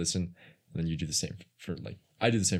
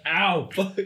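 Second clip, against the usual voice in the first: tripping and falling; 12 semitones higher, 6 dB louder than usual. Pretend. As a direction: fake yelp of pain, higher and louder. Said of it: "I'm just kidding".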